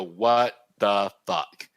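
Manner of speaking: mock yell, slow and drawn out; half-hearted retelling of shouting at an artist; retold loud outburst. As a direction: replay the outburst, stretched long.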